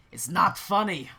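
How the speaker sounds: loud, indignant outburst; upset protest. Acted. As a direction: protest hotly at the mockers. Lucien protests at being mocked.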